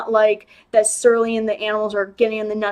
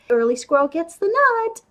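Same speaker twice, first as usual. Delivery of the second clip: slightly higher imitation of an odd, naive saying; lightly mock her sweet motto; a touch of put-on naive cheer; Andy's weird delivery; 5 semitones higher than usual. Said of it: "the way she says it is really, really weird".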